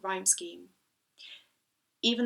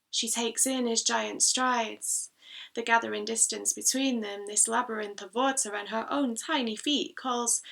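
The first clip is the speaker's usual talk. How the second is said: emphatic recital, slightly raised; poem reading; 4 semitones higher, 6 dB louder than usual. Acted. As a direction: read the verse with growing energy. Reads own poem aloud.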